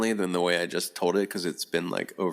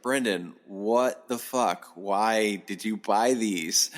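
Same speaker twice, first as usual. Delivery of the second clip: retold incredulous plea; 3 semitones higher, slower than usual. Asking Brendan why he bought the stuffed animals, incredulous. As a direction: stretch out each word in mock bewilderment.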